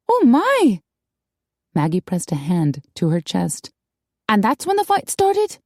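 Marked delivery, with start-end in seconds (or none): 0.1-0.8 high-pitched scandalized exclamation; shocked gasp of words. A narrator's reading. Shocked listener, hand to chest. 4.3-5.6 very high, aghast question; scandalized question. A narrator's reading. Shocked listener asks, hand to chest.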